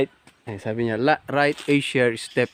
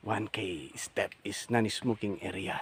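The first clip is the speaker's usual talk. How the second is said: reading the sign; 3 semitones lower, 8 dB quieter than usual. Retold or imitated.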